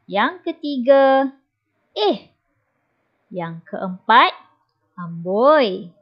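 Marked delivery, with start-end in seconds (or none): 1.9-2.3 much higher, surprised eh. Shown as a demonstration. Teacher showing a surprised eh. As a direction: squeak it out in surprise. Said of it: "perasaan hairan dan kagum".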